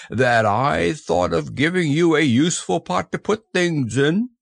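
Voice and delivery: high, contented bear voice; lightly voiced happy bear; happy Pooh. A narrator's reading. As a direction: say it with simple satisfaction. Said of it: "said Pooh happily".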